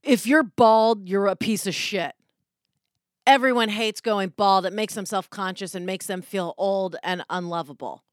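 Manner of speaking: a mild mock of a brutal sales pitch; pushy ad read. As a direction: hammer it like an aggressive commercial. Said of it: "An ad read says".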